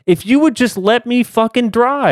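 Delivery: high, laughing mock outrage at her cohost; shrill-free, teasing fake fury with laughter; mock exasperation. Real, not acted. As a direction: playfully scold him for spoiling it. Scolding cohost for jumping ahead.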